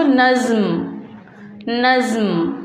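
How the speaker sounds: नज़्म as one syllable, no vowel between ज़ and म; joined jazm reading. Shown as a demonstration. Teacher answers her own question, नज़्म carefully joined. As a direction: run the ज़ straight into म in नज़्म. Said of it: "तो हम क्या पढ़ेंगे उसको?".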